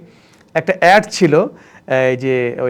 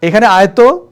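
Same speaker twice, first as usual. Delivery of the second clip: put-on louder, curt call to the house boy; bossy call to servant; 4 semitones higher, 6 dB louder than usual. Shown as a demonstration. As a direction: order the servant boy over. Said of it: "কাজের ছেলেকে বলবেন".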